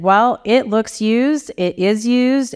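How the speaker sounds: retold upset. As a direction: retell an upset boss insisting, drawing out the words. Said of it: "I was very upset".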